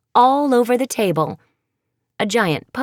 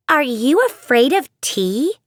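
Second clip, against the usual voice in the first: much higher, louder giddy voice; a showoff bursting to share; zany Maddie; 6 semitones higher, 3 dB louder than usual. Acted. Maddie to her friends, giddy and showy.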